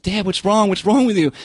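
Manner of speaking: worried family member. Retold or imitated. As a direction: raise the pitch a little, mock-pleading with dad. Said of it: "where the family's like".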